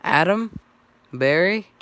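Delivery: loud, high, rising call; querying names. A narrator's reading. Friends find each other on the phone, querying loudly. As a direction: call the name as an eager question.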